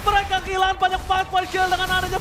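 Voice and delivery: long shouted skill call; esports caster. Acted. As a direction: stretch the skill name in a yell. Live esports play-by-play call.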